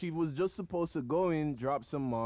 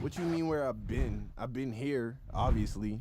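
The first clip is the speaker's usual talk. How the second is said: sister's attitude; 4 semitones lower than usual. Retold or imitated. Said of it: "You hear, you hear that attitude?".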